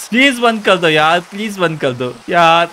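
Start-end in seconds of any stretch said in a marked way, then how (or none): 0.1-1.2 raised pleading plea ending on a rise. Real, not acted. Gamer pleading with the rain, rising plea. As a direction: beg with an upward lilt on please.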